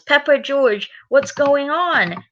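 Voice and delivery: high, drawn-out storybook question; puzzled calling out. Acted. Daddy Pig calls Peppa and George, puzzled. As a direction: call to the children, slowing down.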